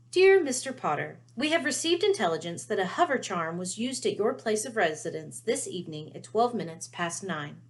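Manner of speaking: crisp formal Ministry letter voice; official letter reading. Acted. Harry reads the Ministry warning letter, formal and official. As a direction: read it like a stern official notice.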